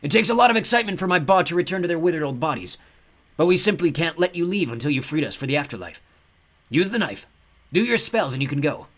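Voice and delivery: high, loud crazed ghost voice; ghost Claude. A narrator's reading. Ghost demands they free the mummies, high and crazed. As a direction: play the mad ghost with gleeful menace.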